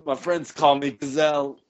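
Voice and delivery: lightly voiced stoned Phish fan; dreamy burnout dude, drifting; stoned hippie.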